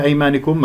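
أيمانكم read "aymanikum"; kasra on nun. Shown as a demonstration. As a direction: sound an i after the nun in أيمانكم. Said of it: "مكسورة".

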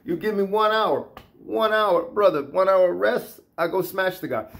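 a hint of a Caucasus accent in broken English; lightly imitated Caucasus fighter accent. Caucasus fighter asking an hour's rest before fighting, light imitated accent. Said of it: "That's how they train".

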